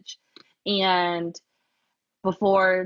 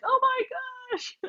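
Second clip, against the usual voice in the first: put-on high, squealed gasp of a touchy kid; high mock child outcry; mocking dramatic kid. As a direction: play the oversensitive child gasping. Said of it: "there's those kids that, like, are like".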